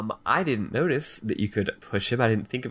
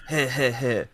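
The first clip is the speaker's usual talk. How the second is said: weird creepy laugh. Retold or imitated. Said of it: "Sorry, I have a weird laugh".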